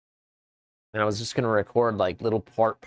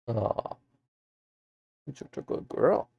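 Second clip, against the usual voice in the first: talking to a dog; 4 semitones higher than usual. Real, not acted. Praising the dog.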